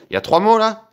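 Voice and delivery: can't believe the win; excited. Real, not acted. Discovers three winning words. (ravi, beaucoup plus aigu et fort)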